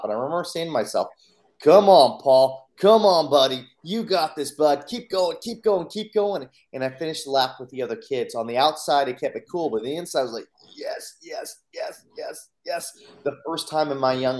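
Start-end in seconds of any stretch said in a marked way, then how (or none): 1.6-6.5 loud, pumped-up urging to himself; self pep talk. Retold or imitated. A boy urging himself to keep running, loud and pumped up. 10.7-12.9 whispered yes, yes, yes; silently cheering inside, kept under breath; inner celebration. Retold or imitated. A boy cheering inside while staying cool outside, whispered.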